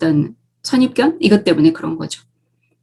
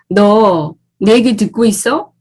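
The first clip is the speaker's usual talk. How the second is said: wrong way to ask; slower than usual. Shown as a demonstration. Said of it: "라고 물을 게 아니라".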